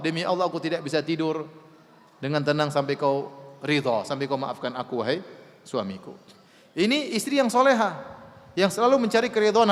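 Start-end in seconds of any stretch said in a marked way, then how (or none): 0.0-6.2 gently imitated wife's plea, low and softening; soft plea. Preacher voices a wife begging her husband's forgiveness, soft plea. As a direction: let the retold plea sink lower and quieter to the end.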